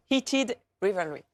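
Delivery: careful English title in a French accent. Real, not acted. Presenter announcing the series title, French-accented English. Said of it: "pardon pour mon accent anglais".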